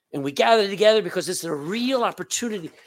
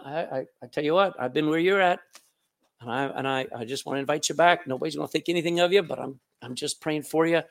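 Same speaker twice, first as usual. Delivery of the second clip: gentle invitation; 6 semitones lower, faster than usual. Acted. Voices gentle invitation to backslider.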